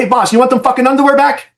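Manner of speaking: high teasing jab; cheeky tease. Retold or imitated. Officer teasing wounded boss in ambulance, high cheeky tease. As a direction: get him back with a grin.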